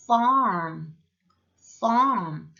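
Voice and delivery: farm long and loud, closing on m; M as final. Shown as a demonstration. Teacher showing the final consonant, drawn-out loud farm. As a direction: stretch farm and shut the lips at the end. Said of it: "굳이 받침 가겠습니다".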